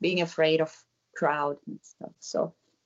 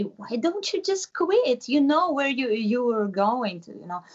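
mocking critic; 5 semitones higher than usual. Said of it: "they say".

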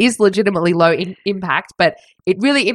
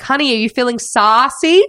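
higher mock husband asking his wife; husband impression; 6 semitones higher, 3 dB louder than usual. Instructor asking his wife mid-video, higher mock-sweet question. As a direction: imitate a cutesy instructor, pitched up. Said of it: "he'd be like".

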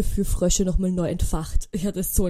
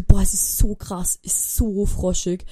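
slow, drawn-out marvelling; slow awe; much slower than usual. Retold or imitated. Walking in the dark park among croaking frogs, slow and awed. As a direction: savour each word in wonder.

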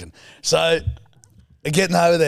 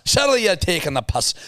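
put-on Scottish accent; 6 semitones higher than usual. Co-host protesting piss-taking, higher Scottish accent. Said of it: "give me your Scottish".

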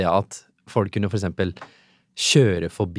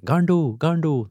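higher, slower taunting call of garndo, garndo; imitated schoolyard taunt of garndo, drawn out; retold jeering call; 6 semitones higher, slower than usual. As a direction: mimic boys jeering garndo, garndo across the street. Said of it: "så hører jeg dem roper".

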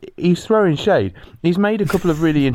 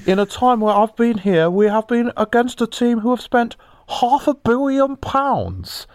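put-on higher old Chinese man voice; Roy Hodgson as old Chinese man; 4 semitones higher than usual. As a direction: play a frail old Chinese manager. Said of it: "done Roy Hodgson as an old Chinese man".

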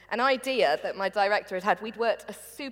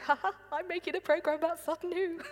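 mock starstruck glee; 9 semitones higher, 4 dB quieter than usual. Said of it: "I was interviewing him on television going".

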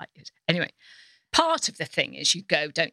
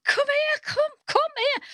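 high, eager summons; imitating the woman; slower than usual. Woman at the table, eagerly calling Carol over, high. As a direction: beckon her over eagerly. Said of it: "She said".

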